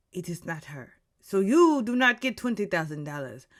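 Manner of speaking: loosely put-on theatrical accent. Game host telling players they guessed wrong, in a put-on accent. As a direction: deliver the verdict in an inexact mock accent. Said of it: "I'm doing this accent".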